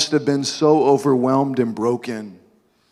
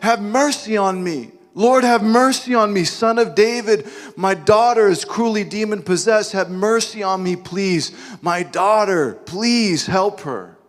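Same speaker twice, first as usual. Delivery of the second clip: pleading, raised and high, slowing at the end; a mother begging for her child's life; desperate crying out; 4 semitones higher than usual. Acted. Mother crying out to Jesus for her daughter, desperate pleading cry.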